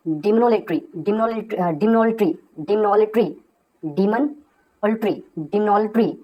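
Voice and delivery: demonolatry very slowly, every syllable clear; teacher drawing out demonolatry; slow pronunciation. Shown as a demonstration. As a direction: stretch demonolatry out for learners. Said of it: "इसको बोलते हैं".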